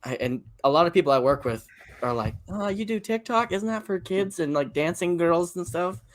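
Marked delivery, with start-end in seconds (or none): 2.5-6.0 higher-pitched imitation of doubting colleagues; sceptical coworkers. Coworkers questioning TikTok as being for kids, lightly mocked doubt. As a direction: lightly mimic a puzzled coworker.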